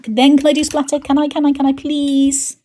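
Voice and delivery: put-on high, pleading whine like a child asking; mock pleading for a treat; childish begging. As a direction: beg for it like a kid. Begging herself to splatter.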